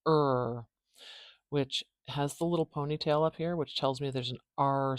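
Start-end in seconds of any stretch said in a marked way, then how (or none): 0.1-0.7 "er" held as one R-coloured vowel; isolated vowel. Shown as a demonstration. Teacher showing the vowel she will write, isolated vowel. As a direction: draw out "er" alone with the R baked in. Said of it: "put the er vowel in here".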